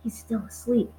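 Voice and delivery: whispered. A narrator's reading. Friendly giant to Sophie beside a sleeper, hushed whisper. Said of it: "the B F G whispered".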